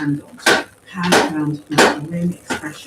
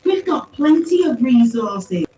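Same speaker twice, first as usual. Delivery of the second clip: high, louder, drawn-out protest; exclaiming; 9 semitones higher, 8 dB louder, slower than usual. A narrator's reading. Paz disputes the lack of resources, exclaiming. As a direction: exclaim it slowly and insistently. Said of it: "she exclaimed".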